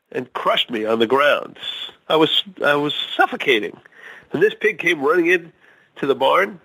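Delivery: proud farmer bragging about his pig, climbing high at the end; joke farmer voice. Acted. Farmer character in told joke.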